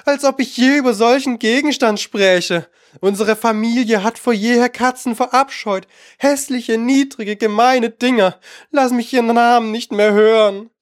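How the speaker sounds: high-pitched outraged mouse; trembling indignation. A narrator's reading. Mouse denounces cats to Alice, high and indignant. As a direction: rant like a small, deeply offended creature. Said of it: "die bis zur Schwanzspitze zitterte".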